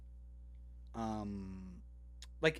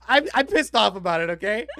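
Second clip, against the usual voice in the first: mock anger; 6 semitones higher, 12 dB louder than usual. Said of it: "no, I'm just joking".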